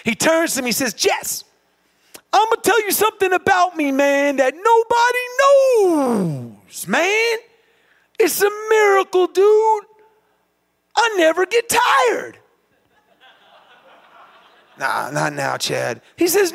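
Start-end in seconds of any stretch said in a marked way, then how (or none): 0.9-12.4 high-pitched, drawn-out hype; impassioned revelation. Retold or imitated. Chad to broken runner at mile seventy-four, high impassioned revelation. Acting out Chad's miracle revelation. 14.8-16.0 low, softer, spent refusal; broken and exhausted. Retold or imitated. Broken runner putting off Chad, low exhausted refusal. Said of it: "I was so broken".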